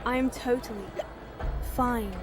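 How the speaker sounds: slurred, tipsy denial; town drunk. Acted. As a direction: drunk insisting she's fine. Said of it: "stumbling and slurring her words".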